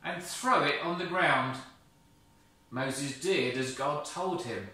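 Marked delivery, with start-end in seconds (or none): 0.0-1.6 loud, firm insistence; firm God. Acted. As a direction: insist with authority. God commands.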